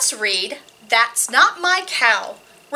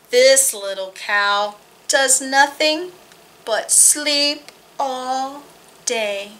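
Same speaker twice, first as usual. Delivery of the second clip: finger play rhyme; slower than usual. Acted.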